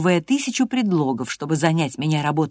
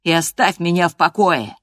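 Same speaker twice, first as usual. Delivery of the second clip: louder, angry demand; angry shout; 6 dB louder than usual. Acted. Hareton angrily orders Catherine to leave him alone. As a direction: drive her away. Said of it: "крикнул он в ярости".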